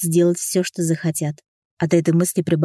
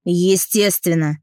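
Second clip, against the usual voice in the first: slow, drawn-out "Естественно."; slow smug bandit; slower than usual. Acted. Bandit answering Sonya, slow and drawn-out "Естественно.". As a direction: stretch "Естественно." out, unhurried. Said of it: "сказал парень".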